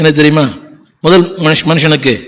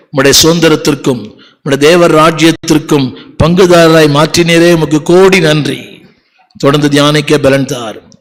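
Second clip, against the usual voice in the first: earnest closing prayer. Acted.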